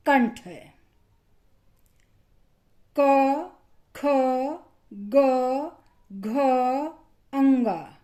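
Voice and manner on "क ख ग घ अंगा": each velar consonant क ख ग घ said slowly and separately, from the throat; कंठ्य व्यंजन अलग-अलग साफ़ बोलना; throat consonants demo. Shown as a demonstration. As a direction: sound out क, ख, ग, घ, अंगा one by one with a pause between. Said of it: "इन्हें जब हमने बोला".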